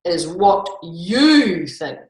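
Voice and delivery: slow, drawn-out villain threat; menacing voice. Acted. Sir Gargoyle mocks the boastful pets, slow and menacing. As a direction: stretch it out like a lurking knight. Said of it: "said a voice".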